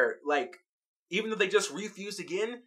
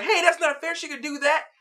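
mock indignant protest; 9 semitones higher than usual. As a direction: squawk it like a kid calling foul. Gems protest Peridot running.

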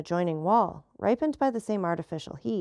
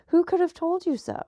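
startled, much higher-pitched question; shocked exclamation; 11 semitones higher, 4 dB louder than usual. A narrator's reading. Monte Cristo questioning the Countess about his marriage, shocked. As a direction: pitch leaps up in alarmed disbelief. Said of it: "exclaimed Monte Cristo, shuddering".

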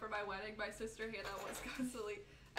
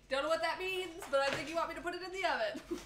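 amused; 7 semitones higher, 6 dB louder than usual. Real, not acted. Laughing at a chat command.

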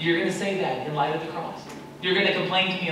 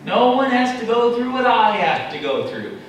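higher, louder overstated lament; exaggerated complaint; 4 semitones higher, 4 dB louder than usual. Believer exaggerating a lament to God, hammed up. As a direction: ham up the suffering. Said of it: "We can exaggerate".

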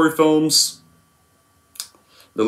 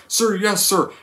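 higher, timid recruit answering; Private Pyle; 8 semitones higher, slower than usual. Retold or imitated. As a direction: answer meekly, staying at attention. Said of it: "How does the scene go?".

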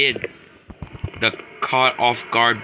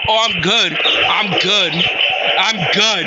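higher, fast, excited babble; keyed-up relief; 6 semitones higher than usual. Real, not acted. Streamer gasping relief after dodging the robot, keyed up. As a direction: rattle it off, still wired from the chase. Breathless relief then panic.

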